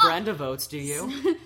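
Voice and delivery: high, loud goofy character voice; silly clown. Pretend. Playing Brenda character.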